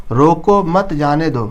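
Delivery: slow, even read of "रोको मत जाने दो" with no pause anywhere; बिना विराम. Shown as a demonstration. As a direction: run "रोको मत जाने दो" together as one phrase, no comma. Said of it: "अर्थ है वो स्पष्ट नहीं हो पा रहा". ("रोको मत जाने दो" बिना रुके, एक साथ पढ़ें)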